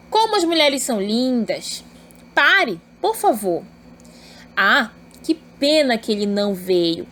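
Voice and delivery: "Como as mulheres são lindas" as an exclamation; exclamative intonation. Shown as a demonstration. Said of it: "Possui uma entonação também". (entonação exclamativa em "que pena que ele não veio")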